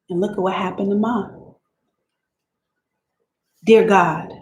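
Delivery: lightly voiced Southern girl writing to God, weary; Celie reading her letters. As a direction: read it as a young girl confiding to God. Reads Celie's letters aloud.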